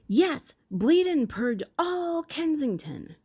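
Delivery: high, slow, put-on doctor's voice; doctor shouting back. Doctor shouts back at the heckler in a high mock voice. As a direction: proclaim it back to the crowd. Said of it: "The doctor shouted back".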